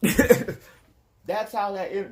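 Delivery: laughing it out, slow. Real, not acted. Recalling the gardener's flat reaction, laughing slowly.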